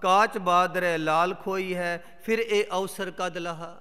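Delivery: measured, declaimed sacred verse; solemn Gurbani reading; scripture recitation. Acted. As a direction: recite the verse line by line with weight.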